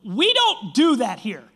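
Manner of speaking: slow, loud telling-off from a host; mock scolding, each word drawn out; imitated scolding. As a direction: lay down the rule, slowly and loudly. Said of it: "she's, like, scolding me".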